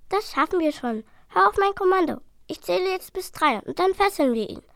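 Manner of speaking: high, firm orders; commanding little dragon. Acted. Dragon commanding his brother, high and firm. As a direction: take charge of the attack.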